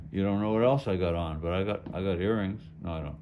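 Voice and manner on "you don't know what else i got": muffled behind a mask; through a face mask. Real, not acted. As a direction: talk through a cloth mask. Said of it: "I sound a little weird because I got a mask on".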